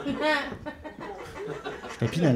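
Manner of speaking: slow, drawn-out stunned Pinel. Retold or imitated. Patient stunned to learn he is at Pinel, drawn out.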